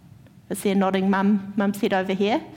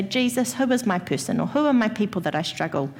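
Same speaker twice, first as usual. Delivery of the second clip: softer, lower prayer; quiet prayer; 4 semitones lower, 4 dB quieter than usual. Shown as a demonstration. Preacher guiding congregation in silent prayer, quiet humble prayer. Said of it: "just say".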